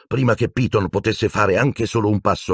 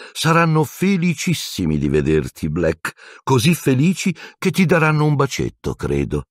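silky, coaxing. Acted. Teacher threatening captive with Dementors, silkily taunting. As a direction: toy with the captive sweetly. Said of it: "disse Piton suadente".

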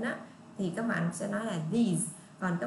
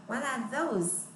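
slow teacher demo of those; slow careful model; 4 semitones higher, much slower than usual. Shown as a demonstration. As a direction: stretch it so students hear th. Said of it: "Cái chữ the, those này đọc giống nhau á". (đọc chậm rõ âm th)

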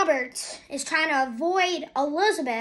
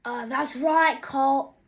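lightly done impression of a wrestler's accent; a hint of Wade Barrett's accent; 2 semitones lower, slower than usual. Shown as a demonstration. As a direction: put on a bit of his accent. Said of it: "I'm good at Wade Barrett's accent".

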